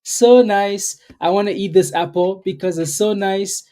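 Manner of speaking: mock-dreamy Eve, cooing over fruit; tempted Eve. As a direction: swoon over the tempting apple, drawing it out. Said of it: "and then Eve was like".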